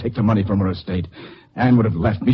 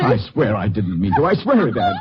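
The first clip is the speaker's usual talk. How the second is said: nervous suspect; 4 semitones higher than usual. Acted. Frantic denial after the shooting.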